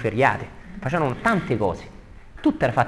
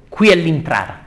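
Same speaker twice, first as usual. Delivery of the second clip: higher, louder declaimed cry; Fleggias; 5 semitones higher, 8 dB louder than usual. Acted. Ferryman announcing the entrance, acted cry. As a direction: shout the announcement in theatrical fashion. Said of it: "gridò".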